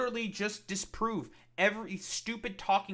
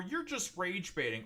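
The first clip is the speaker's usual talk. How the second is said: mocking accusers; 5 dB quieter than usual. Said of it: "deflect to saying".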